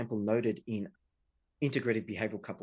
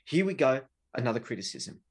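exasperated; 3 dB louder than usual. Retold or imitated. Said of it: "hears it as a whinge".

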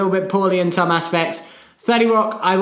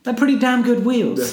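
laughing; 8 semitones higher than usual. Real, not acted. Joking praise, laughter.

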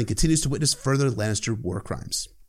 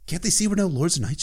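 ordinary talk, nothing marked

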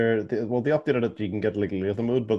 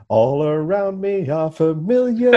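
dramatic movie voice; 5 semitones higher, slower than usual. Pretend. Mock dramatic game quote.

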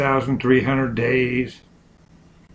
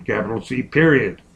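dictating; faster than usual. Shown as a demonstration. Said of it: "dictating punctuation".

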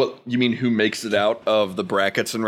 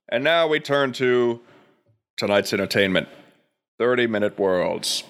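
news anchor. Acted.

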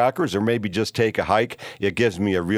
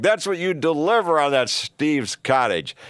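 mocking simpleton; 6 semitones higher than usual. Mimicking simpletons taunting the host, high and mocking. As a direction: sneer it like a smug heckler. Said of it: "simpletons are out there going".

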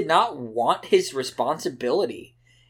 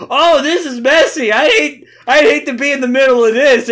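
lightly voiced gossip; 10 semitones higher, 9 dB louder than usual. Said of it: "Vector's just sitting back with popcorn like".

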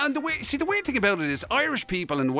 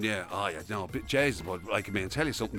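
imitating a worrier; 9 semitones lower than usual. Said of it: "somebody going".

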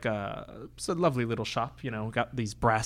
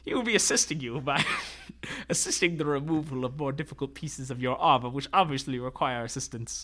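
squat little tailor voice. Acted. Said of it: "speaks in a voice like this".

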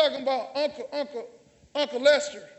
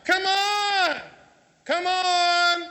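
imitating a churchgoer; 3 semitones higher, much slower than usual. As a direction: lightly voice the lady calling out come on. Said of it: "it was a white lady in there".

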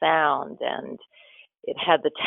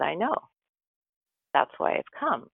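peaceful; 5 dB quieter than usual. Retold or imitated. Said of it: "every time she spoke, it was so filled with love".

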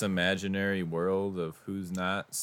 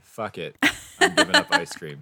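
mock dramatic vow; 7 dB louder than usual. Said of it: "You need to say".

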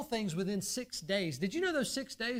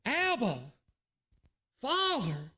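anguished cry; 3 semitones higher, much slower than usual. Retold or imitated. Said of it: "the first word he could muster up".

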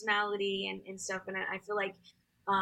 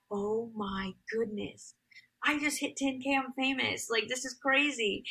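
retold ecstasy; 3 semitones higher than usual. Singer retells hitting ten K views, ecstatic. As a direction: relive the thrill, rising as it sinks in. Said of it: "so ecstatic".

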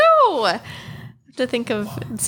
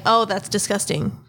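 plain, matter-of-fact disgust. Shown as a demonstration. Partner correcting co-host's impression, disgusted. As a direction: state the disgust without cuteness. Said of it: "It's very like".

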